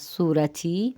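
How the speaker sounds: سورتھی as "soo-ra-thee", puff of h on the t; aspirated t. Shown as a demonstration. Teacher repeats pink after explaining, aspirated pronunciation. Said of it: "تا کے ساتھ ہا کی آواز".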